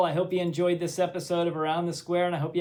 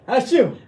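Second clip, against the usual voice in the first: sneezing; 7 semitones higher, 8 dB louder than usual. Pretend. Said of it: "excuse me while I".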